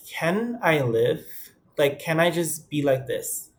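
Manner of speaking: lightly mock-pleading, can I live; exasperated retort. To men judging him, mildly exasperated plea.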